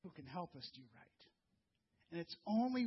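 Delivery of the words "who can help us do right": soft, low, hushed assurance; softly quoting Paul's hopeful answer, hushed; hushed reverence. Retold or imitated. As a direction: drop to a near-hush as if sharing a secret. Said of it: "He says".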